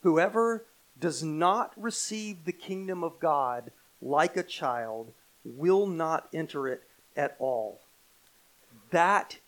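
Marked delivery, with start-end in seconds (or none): 0.0-7.8 slow, deliberate emphasis on "does not receive"; very emphatic. Acted. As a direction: weigh out each phrase with solemn emphasis. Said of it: "is a very emphatic statement".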